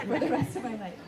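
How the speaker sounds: laughing through the words; a happy laugh breaking in. Real, not acted. Laughing through wedding vow.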